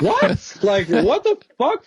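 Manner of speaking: squeaky stunned "What?" with a drawn-out "what the fuck"; escalating shock. Retold or imitated. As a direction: top the first "What?" in disbelief, then drag out the curse. Repeated shocked reaction to dad.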